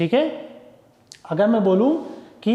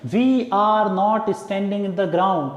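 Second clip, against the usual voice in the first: slow dictation; much slower than usual. Shown as a demonstration. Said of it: "sentence देखिए".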